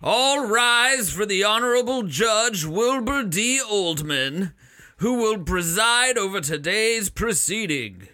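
lightly voiced court herald; a hint of a pompous crier; town crier. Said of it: "voices that are supposed to be recognizable".

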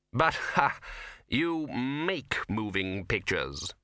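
slow, kindly patrician voice. A narrator's reading. The patrician kindly reassures the young pair. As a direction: gently encourage them, slowly. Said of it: "said the patrician kindly".

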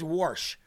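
put-on dad's accent, "warsh" for wash. Imitating his dad, "warsh" with an r. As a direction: add an r, "warsh". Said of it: "my dad says "warsh".

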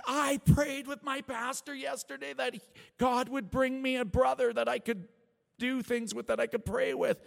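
high-pitched, mock-tearful outpouring; hammed-up tearful voice; imitated bawling. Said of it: "starts bawling".

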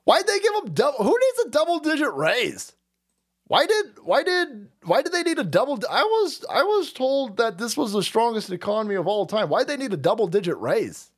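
high, indignant questions; mock outrage. Host mocking the raises, high indignant whine.

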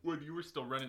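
words pushed out through a burp. Real, not acted. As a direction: talk through a small ginger burp. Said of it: "excuse me, ginger burp".

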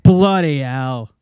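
loud, drawn-out British exclamation; British accent. Acted. Co-host echoes the phrase from Britain, drawn-out British accent. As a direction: stretch it slowly in a mock British accent. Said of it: "they say in Britain all the time".

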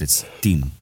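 light Russian accent on "It's Tim". Shown as a demonstration. Driver imitates the boss's son's name in a mild Russian accent. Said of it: "Tim with Russian accent".

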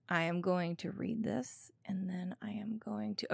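whispered aside; hushed whisper to herself. Real, not acted. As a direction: drop to a whisper as if sharing a secret. Whispered aside before reading.

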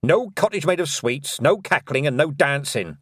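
put-on firm old witch; stern old witch. Granny Weatherwax voice.

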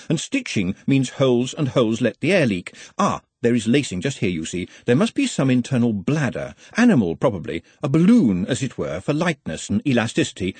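a touch of the eager scholar; mildly pedantic, working it out; lightly voiced learned underling, absorbed. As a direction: think aloud while examining a curious object. Voices Nutt examining the ball.

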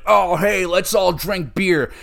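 mock a dim beer-loving dude; mock generic bro. Reviewer mimicking a hated character inviting everyone drinking, mocking. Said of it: "He is so generic".

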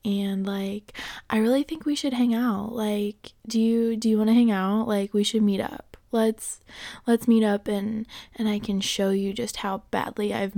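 a hint of a sly, coaxing ex; softly tempting, hesitant ex; ex trying to win you back. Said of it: "Do I sound like your ex trying to get back with you yet?".

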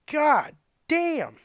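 loud, high burst of shock; shocked exclamation. Retold or imitated. Mechanic opening a trunk full of weed, loud shocked outburst. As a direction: blurt it out stunned at the find.

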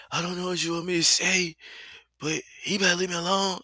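a light, high, quick imitation of a hoarse voice; imitating Chrisean Rock. Imitating Chrisean Rock's hoarse way of talking, lightly done. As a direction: mimic her rushed talk, lightly voiced. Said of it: "she talk just like that".

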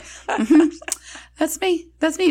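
high, laughing mm-hmm; laughing agreement. Retold or imitated. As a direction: chuckle it out, owning the joke. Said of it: "laughing, like".

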